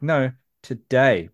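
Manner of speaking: slow, careful "today"; correcting pronunciation. Retold or imitated. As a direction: correct them slowly, spelling out "today" with an AY sound. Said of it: "We'd always be like".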